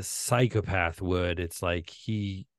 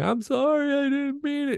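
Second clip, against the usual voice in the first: very high, weepy, slow, drawn-out sobbing voice; 4 dB louder than usual. Retelling a film villain's words after being shot: imitating sobbing. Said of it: "he's even sobbing".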